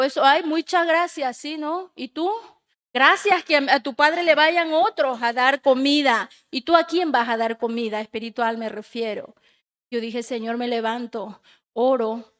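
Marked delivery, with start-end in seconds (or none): 0.0-8.0 rebuking. Retold or imitated. Retold rebuke from the Lord.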